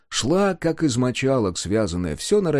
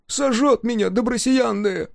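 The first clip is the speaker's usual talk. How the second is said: tearful confession; 11 semitones higher than usual. A narrator's reading. Woodcarver confesses his guilt, tearful. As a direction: confess with tears in the voice. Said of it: "покаялся он со слезой".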